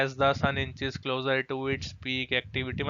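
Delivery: very slow, word-by-word reading of the passage; slow read-aloud. Shown as a demonstration. Teacher reading the passage out slowly to students.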